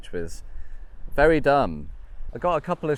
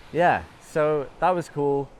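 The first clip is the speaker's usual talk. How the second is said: shouting over wind; 5 semitones higher, 4 dB louder, slower than usual. Real, not acted. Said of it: "Hopefully you could hear me over the wind".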